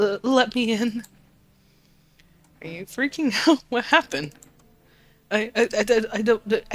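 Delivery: lightly voiced frightened child, stammering; a panicked kid fighting for words; scared stuttering kid.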